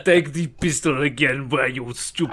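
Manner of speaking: put-on German villain voice; hammed-up German-ish accent; mock German accent. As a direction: berate in a fake German accent. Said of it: "What horrible German man?".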